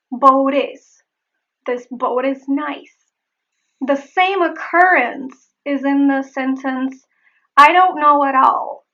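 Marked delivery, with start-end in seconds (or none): 0.1-2.9 "Boat is" joined by a tapped T; linked flap T. Shown as a demonstration. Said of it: "The final T becomes a flap T". 7.6-8.9 "at all" run together with tapped T, louder; linked flap T. Shown as a demonstration. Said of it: "There is the flap T".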